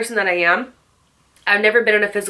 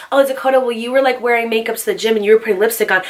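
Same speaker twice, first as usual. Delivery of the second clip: higher, quick imitation of critics; lightly mocking callout; mock accusation; 3 semitones higher, faster than usual. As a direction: mimic viewers calling you out. Mimicking viewers calling her out.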